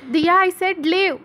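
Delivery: slow, high, loud repeated order; slow angry shout. A narrator's reading. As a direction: drag out each word as a furious command. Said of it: "మళ్ళీ అరుస్తాడు". (నెమ్మదిగా గట్టిగా కోపంతో అరుపు)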